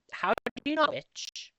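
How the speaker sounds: voicing the friend up high and loud; high squeaky quote. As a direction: pitch the question way up like an excited friend. Acted quote of friend asking.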